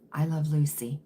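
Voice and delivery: breathy whisper of the show's name; whispered aside. Real, not acted. Host whispering the show name to viewers, whispered. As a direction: drop to a whisper for the title.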